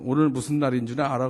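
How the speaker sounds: 아빠가 살짝 엄하게 묻는 흉내; 낮은 편으로 추궁하듯 가볍게. Retold or imitated. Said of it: "그래서 제가". (은근히 따지는 말투)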